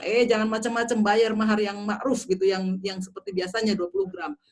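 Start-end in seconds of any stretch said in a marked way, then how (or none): 0.1-2.2 raised voice, mock stern warning; father's warning. Lecturer voices a father threatening his daughter's suitor, mock stern. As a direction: imitate a protective father warning a groom, louder. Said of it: "ayahnya bisa ngangkat pedang".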